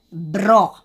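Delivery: Bró said alone with firm force; forceful syllable. Shown as a demonstration. Teacher answering which syllable is tonic, Bró stressed. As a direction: give Bró a firm, isolated punch. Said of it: "porque eu falo com mais força".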